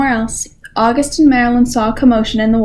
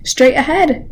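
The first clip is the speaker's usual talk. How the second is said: eager, raised call; excited cry; 4 semitones higher, slower than usual. Acted. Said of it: "frogs cried out excitedly".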